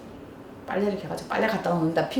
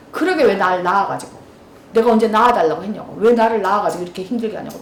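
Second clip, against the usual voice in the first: mild mock child yelling; 3 semitones lower than usual. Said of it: "막 소리소리 지르잖아요".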